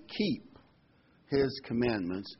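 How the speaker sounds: "keep" held, then a pause before "his commandments"; slow, separated "his commandments" after a firm "keep"; stress on KEEP. Shown as a demonstration. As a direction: lean on "keep" and let it land. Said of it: "I want to emphasize the word".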